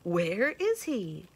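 high, loud hooting owl voice; curious owl. Acted. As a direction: hoot out anxious questions like an owl. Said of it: "asked the owl of many questions".

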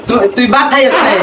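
Chittagong Bengali accent; Chittagonian dialect. Shown as a demonstration. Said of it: "এটাকে তো আমরা বলি".

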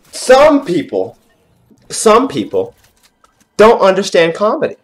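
mock indignation. Gamer to viewers about comedy, mock indignation. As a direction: draw out the opening, then lift it indignantly.

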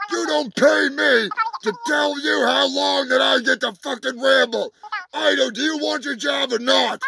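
angry shout. Acted. Yelling at manager on phone.

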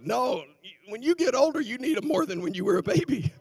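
preacher building to a peak. Acted. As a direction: press the point home, climbing. Preacher rising emphatic.

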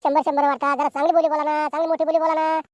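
drawn-out auction calling; auctioneer's call. Acted. Auctioneer to villagers opening goat bids, auction call. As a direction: call out bids with stretched endings.

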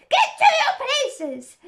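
high, slow, thundering shout. A narrator's reading. Queen orders players to places, thundering. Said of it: "in a voice of thunder".

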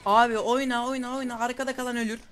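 loud, high urging of the team; urgent shout. Real, not acted. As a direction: yell at them to push. Urging teammates mid-fight.

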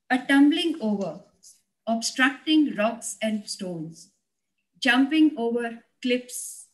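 measured poetry reading with pauses between phrases; poem recitation. Acted. Poet reciting her poem on life to an online conference, measured recitation. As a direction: recite it line by line, weighting the key words.

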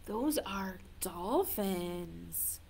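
slow whispered reveal; whispering. Real, not acted. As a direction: whisper it slowly. Hushed reveal to children.

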